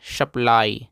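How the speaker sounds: "सप्लाई" said as a clear model word; pronunciation demo. Shown as a demonstration. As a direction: model the reading of "सप्लाई" for learners. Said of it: "इसको पढ़ते हैं".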